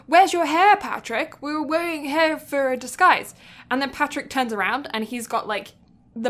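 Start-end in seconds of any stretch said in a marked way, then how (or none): 0.1-3.3 SpongeBob voice. Retold or imitated. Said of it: "SpongeBob goes".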